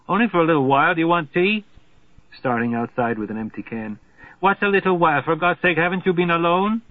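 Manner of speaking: a hint of a frightened lover clinging on; distressed Margarita. Margarita to Slothrop, who left her alone: mildly desperate.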